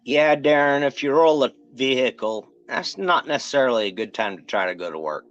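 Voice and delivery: talking with fake teeth in. Real, not acted. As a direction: speak around a set of fake teeth. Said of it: "Let me go put in my fake teeth".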